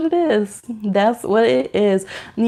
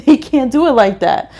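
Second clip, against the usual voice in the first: ordinary talk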